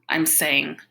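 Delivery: expressive read-aloud of a novel; story narration. Acted. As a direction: tell the story in character, with lively dialogue. Reads a novel chapter aloud.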